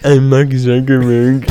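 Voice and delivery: slow, stilted tech-boss impression; put-on robotic slow delivery; Mark Zuckerberg. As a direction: drag the words out awkwardly. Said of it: "It sounds like him".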